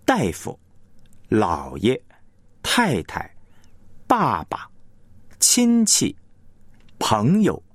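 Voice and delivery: each two-syllable word front-stressed, first syllable held full, second lighter. Shown as a demonstration. Broadcast teacher demonstrating word stress to listeners, front-stressed. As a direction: lean on the first character of 东西, 医生, 大夫, let the second drop lighter. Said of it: "比方重音在前的单音节".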